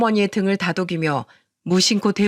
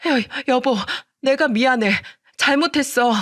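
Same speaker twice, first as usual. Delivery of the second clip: higher, stammering plea; pleading apology; 5 semitones higher than usual. Acted. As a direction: beg him, voice climbing up. Wife begs husband for forgiveness. (쫓겨나는 아내가 남편에게 높은 목소리로 애원)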